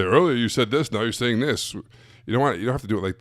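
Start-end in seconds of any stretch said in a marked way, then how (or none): 0.0-1.7 blunt callout. Shown as a demonstration. Coach showing the wrong way to call out a client, blunt and confronting. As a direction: throw their words right back at them. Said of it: "put their face in and say".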